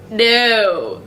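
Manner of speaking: mock Australian vowel on "No"; Aussie-accented "No", stretched. Shown as a demonstration. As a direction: imitate a drawn-out Aussie "No". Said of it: "it's like, no".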